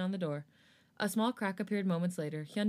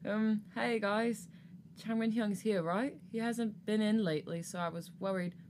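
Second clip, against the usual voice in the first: slow, hesitant and a little higher; nervous; 3 semitones higher than usual. Acted. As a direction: nervously feel your way in. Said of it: "Felix nervously chuckled".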